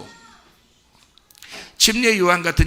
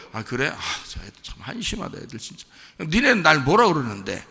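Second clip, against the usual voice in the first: scoffing. Acted. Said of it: "비웃으면서 지금 제자들한테 물어본 거예요".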